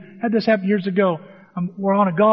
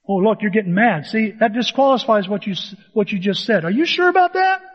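snide mock retort, rising to a high squeak on the last question; a preacher acting out a sarcastic put-down; sarcastic mockery; 4 semitones higher, 4 dB louder than usual. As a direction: needle them with a smug taunt. Mocking a helper with sarcasm.

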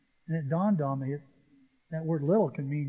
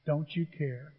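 quiet reflective repeat; 3 semitones lower, 6 dB quieter than usual. Shown as a demonstration. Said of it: "there it is".

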